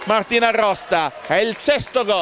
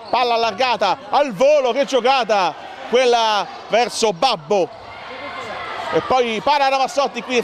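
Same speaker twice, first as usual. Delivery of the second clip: excited play-by-play; 4 semitones higher than usual. Real, not acted. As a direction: call the volley live. Live call of a volley.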